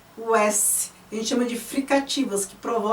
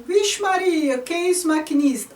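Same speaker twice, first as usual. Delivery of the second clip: pitched up high like a train whistle; high whistle-like call; 5 semitones higher than usual. Shown as a demonstration. Teacher reading a poem aloud, squealed up high like a whistle. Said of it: "Tem uma parte que faz assim".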